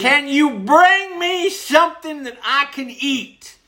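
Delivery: slow, high, drawn-out words; exaggerated request. Fed-up customer asking waitress for food, slow exaggerated request. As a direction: spell it out slowly as if to someone dim.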